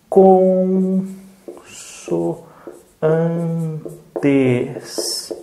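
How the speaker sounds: "consoantes" muito lento, con... so... an... tes; sílabas esticadas. Shown as a demonstration. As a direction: prolongue e separe cada sílaba de "consoantes". Teacher stretches word while writing it. ("consoantes" soletrado por sílabas, com pausas)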